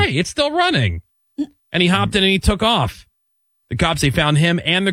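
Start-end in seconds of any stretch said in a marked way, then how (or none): 0.0-1.0 a hint of a tipsy guy; surprised drunk guy. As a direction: act out the drunk spotting the running cruiser. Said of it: "and he's like".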